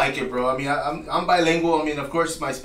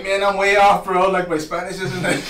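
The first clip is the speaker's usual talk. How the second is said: amused dismay; 4 semitones higher, 5 dB louder than usual. Retold or imitated. Quotes own dismay at the book.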